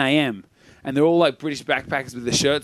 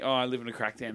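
soft, offhand joke; low-key, kidding delivery; jokingly; 3 semitones lower, 7 dB quieter, faster than usual. Retold or imitated. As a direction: toss it off lightly as a throwaway joke. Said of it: "oh, jokingly".

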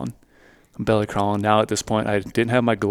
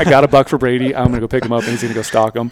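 mock-excited, louder at the start; Trail imitation; 6 dB louder than usual. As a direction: imitate an over-eager friend. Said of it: "Trail's just so excited".

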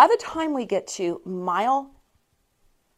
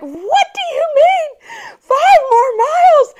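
much higher, louder, slow wailing disbelief; sobbing disbelief; 8 dB louder than usual. Retold or imitated. Hearing five more miles, sobbing in high loud disbelief. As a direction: wail it like you're crying. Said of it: "I literally am sobbing on mile eight".

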